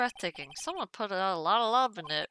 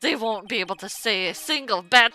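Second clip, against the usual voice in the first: louder, gloating noble lady; haughty aunt; 3 semitones higher, 10 dB louder than usual. Acted. A scheming aunt gloating at the lawyer, loud and smug. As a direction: sneer it like a triumphant aunt. Player voices Morgan.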